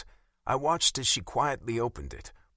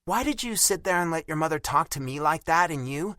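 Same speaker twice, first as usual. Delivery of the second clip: pissed; 8 semitones higher, 3 dB louder than usual. A narrator's reading. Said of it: "Now I knew she was pissed".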